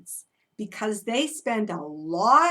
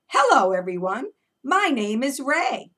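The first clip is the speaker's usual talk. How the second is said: horse voice; 6 dB louder than usual. Pretend. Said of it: "this horse is saying".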